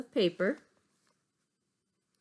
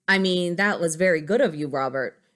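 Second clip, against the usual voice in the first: louder, earnest teacher thanks; Miss Kirby voice; 7 dB louder than usual. Acted. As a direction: praise him with a raised voice.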